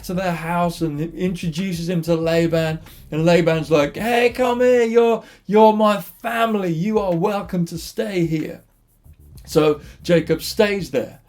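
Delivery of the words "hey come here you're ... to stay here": pitched-up acted greeting; hearty welcome. Laban welcomes his nephew into the house, eager. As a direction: greet long-lost family eagerly.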